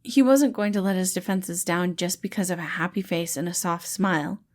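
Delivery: ordinary delivery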